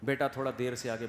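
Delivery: ordinary talk, nothing marked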